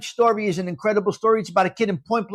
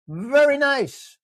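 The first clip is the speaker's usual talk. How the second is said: put-on approval; 6 semitones higher, slower than usual. Repeated praise in a put-on voice.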